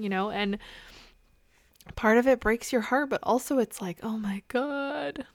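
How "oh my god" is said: high, drawn-out exclamation; exasperated groaning. Acted. Mom whose kids won't leave her alone, exasperated. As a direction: stretch it out in weary exasperation.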